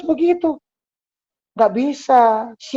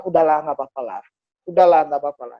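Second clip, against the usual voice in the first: lax parent; 8 semitones lower, faster than usual. Retold or imitated. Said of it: "terbiasa melonggarkan hal".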